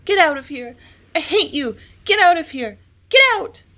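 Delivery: high, rising hysterical screech. A narrator's reading. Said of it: "I screeched at him".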